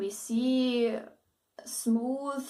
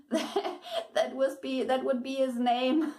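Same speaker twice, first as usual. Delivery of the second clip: laughing; 2 semitones higher than usual. Real, not acted. Joking about Pokemon name.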